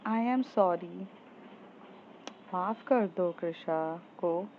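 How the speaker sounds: soft coaxing apology. Acted. Coaxing upset friend, apologizing.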